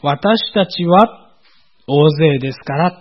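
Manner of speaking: 私たちは stretched out very slowly; slow down on 私たちは to contrast it with 私; drawn-out 私たちは; stress on 私たちは. Shown as a demonstration. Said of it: "と言っているところからして".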